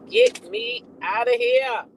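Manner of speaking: slow, drawn-out mock plea; mock frightened plea. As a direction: whine it out like a scared star. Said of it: "She said".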